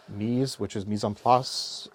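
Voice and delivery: "mise en place" said the French way, "mise" like "meez", nasal "en"; mock French accent. Shown as a demonstration. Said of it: "with a horrible accent".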